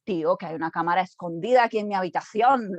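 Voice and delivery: fast, amazed Spanish aside; rushed amazed exclamation. Retold or imitated. Teacher retelling discovering the Enneagram, rushed and amazed. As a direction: blurt it out quickly, half joking. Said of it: "I said".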